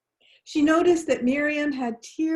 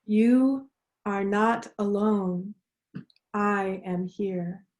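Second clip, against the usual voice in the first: slow unison affirmation; 2 semitones lower, slower than usual. Shown as a demonstration. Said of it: "let's say it together".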